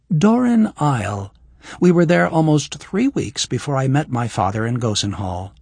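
lightly voiced young woman; Kira's voice. Voices Kira.

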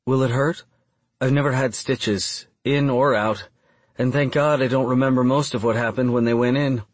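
hint of an uneasy woman character; lightly voiced Bryn. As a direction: lightly raise the pitch for her questioning lines. Narrator voices the woman's dialogue.

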